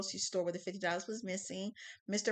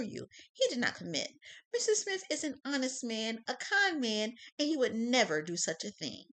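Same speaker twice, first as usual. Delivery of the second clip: defense lawyer voice; 3 semitones higher, 4 dB louder than usual. Acted. Defense opening statement.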